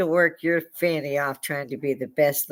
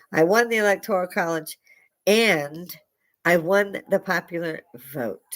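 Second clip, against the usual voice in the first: higher, emphatic quoted boast; Donald Trump; 3 semitones higher than usual. Retold or imitated. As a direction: declare it proudly, pausing around the AND. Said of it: "Donald Trump said".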